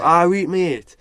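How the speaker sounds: loud, high Geordie shout; shouting back. Retold or imitated. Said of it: "you just shout back".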